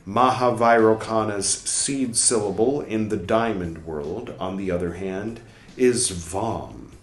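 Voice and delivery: measured, deliberate reading of a scholarly text; formal read-aloud. Acted. Reader reciting a dense book passage aloud, formal reading. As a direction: read it out clearly, pausing between phrases.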